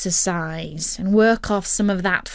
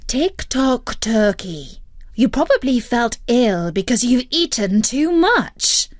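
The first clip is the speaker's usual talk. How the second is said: higher, louder firm telling-off; a patient but cross guardian; stern lecture; 5 semitones higher, 3 dB louder than usual. Acted. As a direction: Future Dog lecturing. Future Dog lecturing.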